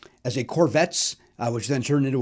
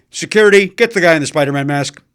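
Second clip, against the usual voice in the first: announcement; 8 dB louder than usual. Retold or imitated. Store announcement over loudspeaker.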